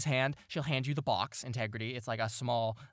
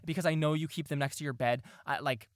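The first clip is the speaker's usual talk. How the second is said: mom's fussing voice; 2 semitones higher than usual. Acted. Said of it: "start walking over towards you and go".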